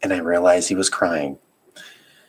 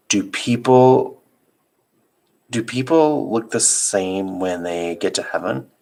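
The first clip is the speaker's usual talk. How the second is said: put-on small child voice; slower than usual. Child asking slowly in bed.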